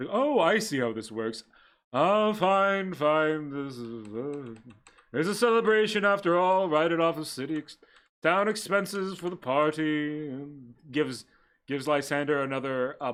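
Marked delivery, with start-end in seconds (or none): 0.1-10.3 breathy vintage purr. Acted. Sebastian gives up, celebrates.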